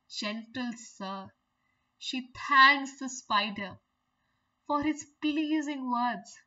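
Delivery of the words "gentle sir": slow, softer gentle sir; a soft, charmed little fly. Retold or imitated. Teacher showing the fly softening to the spider, slow and soft. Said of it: "she says".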